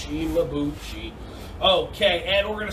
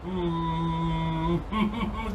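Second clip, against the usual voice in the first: ear-cleaning hum; 3 semitones lower, 4 dB quieter than usual. Shown as a demonstration. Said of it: "just like that".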